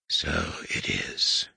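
slow, hushed, low rasp of a dread lord. Acted. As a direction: let it fall slow and heavy, almost breathless.

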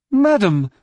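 high, stern alien scientist; affronted high-pitched sternness. A narrator's reading. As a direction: open with a stern, forceful address. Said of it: "he said sternly".

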